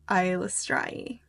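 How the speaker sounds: Eilistraee ending in "strai"; chosen pronunciation of Eilistraee. Shown as a demonstration. Host picking today's version of the name, Eilistraee said as "strai". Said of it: "as we all pronounce Isla Strae differently".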